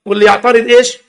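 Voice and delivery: loudly mock the rigid church rule. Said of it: "يقول لك". (تقليد ساخر لرجل الكنيسة بصوت أعلى)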